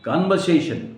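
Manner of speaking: "कन्वर्सेशन" with no R before the S; "कन्वर्सेशन" said as "kan-va-se-shan"; silent R. Shown as a demonstration. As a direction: leave the R out of "कन्वर्सेशन". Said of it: "आर silent करना है".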